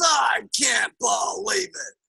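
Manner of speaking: slow, drawn-out disbelief; mock indignation, stretching the words; exasperated husband. Negative husband reacts to wife's story, exasperated.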